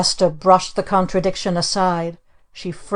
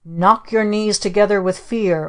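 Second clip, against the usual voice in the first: staged command to the captives; ordering; 3 semitones higher than usual. Acted. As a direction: give the order grandly. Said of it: "ordered our Aunt Esta".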